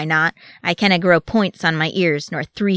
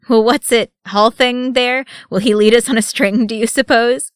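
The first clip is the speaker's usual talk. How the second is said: higher, much louder merry voice; booming dwarf amusement; chuckling; 6 semitones higher, 8 dB louder than usual. A narrator's reading. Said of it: "he chuckled".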